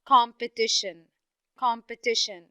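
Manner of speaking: competition with COM and TI stressed; stress on first and third syllables. Shown as a demonstration. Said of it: "I have the first syllable".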